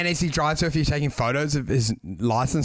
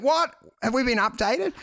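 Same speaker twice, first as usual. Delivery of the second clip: high, startled mock question; mock bafflement; 7 semitones higher than usual. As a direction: play someone confused after a reset. Voices the baffled rebooting people.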